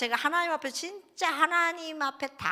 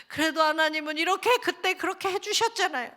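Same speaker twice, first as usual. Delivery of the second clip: higher, louder, fervent remembering; mock fervent recollection; 7 semitones higher, 7 dB louder than usual. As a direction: swell with grateful fervour. Prayer rising in gratitude. (높고 크게 감사하며 벅차오르는 기도)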